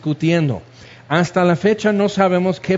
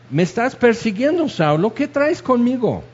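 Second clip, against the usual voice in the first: lightly acted higher-pitched challenge; a mild mock confrontation, voice lifted; Jesús confronting Saulo; 5 semitones higher than usual. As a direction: confront him in a raised pitch, half in play. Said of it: "Yo soy Jesús a quien tú persigues".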